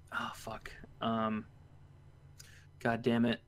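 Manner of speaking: very soft, half-whispered swear to oneself; low, quiet self-reproach; muttered curse. Real, not acted. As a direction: curse under your breath, searching your memory. Struggling to recall a game name.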